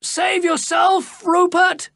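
slow, high, loud plea; a captured man urging Rupert to flee; desperate cry. A narrator's reading. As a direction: call out urgently to Rupert. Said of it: "cried another voice".

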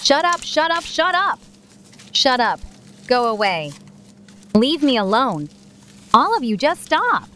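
snapping at everyone to stop; sharp angry outburst. Acted. Lily snaps at everyone.

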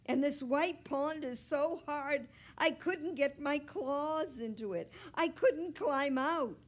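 loud, high, complaining cat; sustained high-pitched indignant yowl. A narrator's reading. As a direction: wail out your tale of woe. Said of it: "Are you ever a yowler?".

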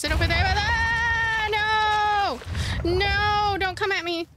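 high, loud frightened yelling; real scared cry of no; panicked shout. Real, not acted. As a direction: shout to ward off the attacker. Monster attacks her.

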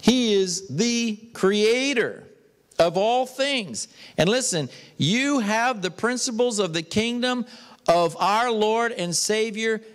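emphatic, measured proclamation from the pulpit; emphatic preaching. Real, not acted. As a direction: preach it word by word, with pauses. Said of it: "I'm being so emphatic with you".

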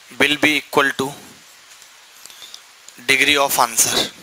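very slow, word by word; teacher dictating to students, drawn out; slow dictation. Shown as a demonstration. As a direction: stretch each word so the class can write it. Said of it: "repeats the phrase for dictation".

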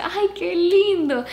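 high, slow, loud cooing; drawn-out sing-song fawning; imitated gushing admiration. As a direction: coo over an adorable child, imitating a delighted lady. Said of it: "la señora que estaba detrás de nosotros riéndose".

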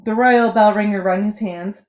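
ordinary delivery, nothing marked

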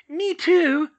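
loud, high call. Acted. Georgina volunteering from the crowd, calling out high. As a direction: call out to be counted. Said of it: "called Georgina".

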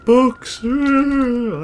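sudden high loud gasp and yell; startled yelp. Real, not acted. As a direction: jump with fright, loud and high. Startled by flying books.

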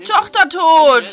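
loud, blurted-out shock; shocked outburst. Real, not acted. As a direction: blurt it out, stunned. Shocked outburst at daughter's death.

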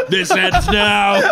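high, slow hammy drama; slow, solemn mock threat; mock dramatic.

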